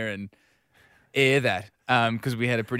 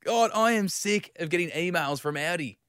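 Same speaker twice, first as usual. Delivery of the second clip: fed-up colleague; 4 semitones higher, slower than usual. Retold or imitated. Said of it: "Tony's going".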